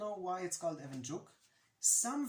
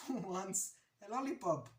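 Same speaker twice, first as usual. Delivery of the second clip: mock shout, higher and slightly louder; retold yell; 3 semitones higher, 4 dB louder than usual. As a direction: offer it aloud, half yelling. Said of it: "and I yelled".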